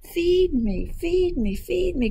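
high, demanding duckling cries; hungry baby duck. Acted. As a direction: plead for food in a high duckling voice. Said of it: "cried the hungry baby duck".

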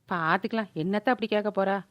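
low, soft thinking aloud; muttered aside. Acted. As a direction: drop the voice to reassure yourself. Aside to herself while bargaining. (தனக்குள் முணுமுணுப்பு)

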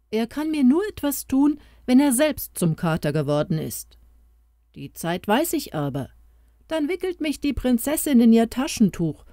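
lightly voiced mouse bringing good news; a hint of an eager small creature; little mouse voice. Mouse voice held.

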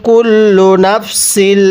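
কুল্লু নাফসিল drawn out slowly; slow Quran recitation demo; slow joined reading. Shown as a demonstration. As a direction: blend the syllables slowly. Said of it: "তাহলে কিভাবে পড়ব?".

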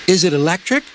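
put-on high, curious child voice; little girl asking. A narrator's reading. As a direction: ask like a small girl. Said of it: "asked Bridget".

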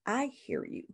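I hear you lifted high and softened; soft, high, comforting reassurance; reassuring. Shown as a demonstration. Counselor reassuring a distressed client, high soft reassurance. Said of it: "You're letting them know that".

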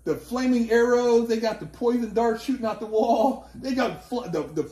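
excited. Real, not acted. Describing gauntlet animatedly.

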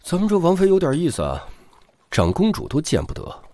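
light, smiling feeler; teasing probe. Acted. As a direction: fish for gossip with a grin. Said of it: "笑着试探". (笑着试探)

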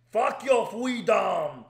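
slow, loud mock Austrian bark; Arnold yelling. Capping the fake Arnold post with a slow Austrian-accented yell. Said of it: "he wrote in social media post".

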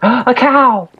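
sudden delighted gasp; surprised gasp. Real, not acted. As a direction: gasp at what you just spotted. Gasps at a cow.

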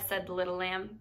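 gentle storybook read-aloud; animated picture-book narration with character voices; reading to children. A narrator's reading. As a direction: tell it like a bedtime story for kids.

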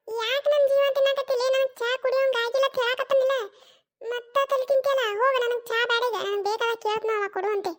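put-on exasperated old woman waving her off; irritated mother-in-law. (ಬೇಸತ್ತ ಅತ್ತೆಯ ಧ್ವನಿ)

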